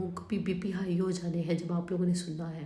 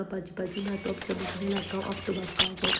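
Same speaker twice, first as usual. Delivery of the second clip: pleading mop. Pretend. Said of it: "मुझे कहने लगा".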